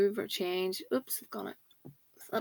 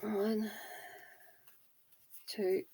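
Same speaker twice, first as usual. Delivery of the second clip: whispering; 5 dB quieter, slower than usual. Real, not acted. Counting knots while tying ribbon.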